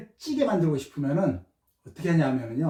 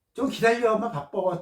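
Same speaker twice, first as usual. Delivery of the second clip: mock irritated; 5 semitones higher than usual. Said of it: "또 짜증을 내야 돼요".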